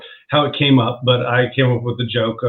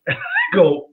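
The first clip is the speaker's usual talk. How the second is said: laughing; slower than usual. Real, not acted. Laughing while telling the story.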